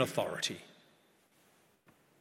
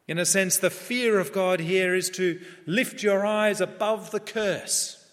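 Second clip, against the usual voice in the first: raised, emphatic pulpit voice; impassioned preaching; 5 semitones higher, 5 dB louder than usual. Real, not acted. Preacher telling a congregation what fearing God is, impassioned. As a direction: press the point home to a congregation.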